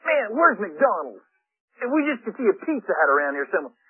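lightly acted grumbling crowd; griping. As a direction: complain like a fed-up follower. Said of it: "the people are griping and griping".

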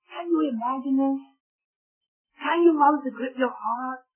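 high-pitched, pleading pulpit voice; impassioned preaching. Real, not acted. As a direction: plead with the congregation to grasp it. Preaches with raised voice.

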